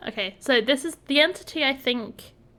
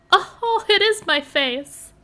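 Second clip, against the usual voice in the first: surprised realisation; 8 semitones higher, 7 dB louder, slower than usual. Real, not acted. Realises the game's face.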